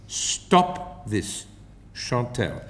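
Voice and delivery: soft unvoiced self-warning; self-caution. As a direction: hush yourself, scolding inwardly. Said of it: "I cautioned myself".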